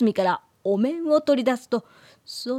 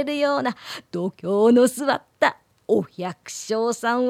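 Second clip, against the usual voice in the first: put-on chuckling old man voice; a sly elder teasing gamblers; creaky wise old man. Same old man continues.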